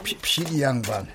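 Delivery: put-on a tired old man's plea. Tired old man pleading.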